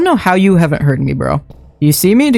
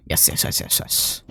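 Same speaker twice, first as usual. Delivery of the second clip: breathy, voiceless string of yeses; whispered yes; 13 dB quieter than usual. Real, not acted. Eager whisper guiding the player to the right spot. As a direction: whisper it, barely there.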